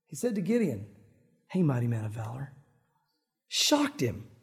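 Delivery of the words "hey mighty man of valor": low, grave voice of God Almighty; all seriousness. Acted. God addresses Gideon in the hole, dead serious. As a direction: drop it deep and mean it solemnly. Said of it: "with all seriousness of God Almighty".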